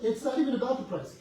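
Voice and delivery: loud retold quote. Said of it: "She's like".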